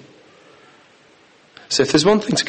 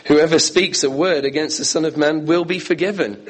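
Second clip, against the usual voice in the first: verse read higher, stress landing on will; read with new emphasis; 5 semitones higher than usual. Shown as a demonstration. Preacher rereads verse thirty-two to the church, stressing will. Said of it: "Let me read the same verses with emphasis, different emphasis".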